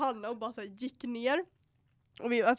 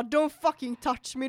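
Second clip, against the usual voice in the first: mock angry; 5 dB louder than usual. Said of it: "så jag blev så jävla arg".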